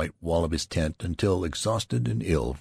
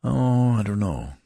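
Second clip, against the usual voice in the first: slow, composed, a little louder; with dignity; 5 semitones higher, 5 dB louder than usual. Acted. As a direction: answer with measured pride. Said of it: "he remarked with dignity".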